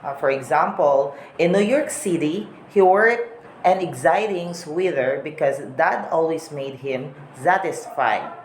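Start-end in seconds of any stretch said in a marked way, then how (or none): 1.4-8.3 American English, T's turned into D's. Shown as a demonstration. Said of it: "T sounds as a D".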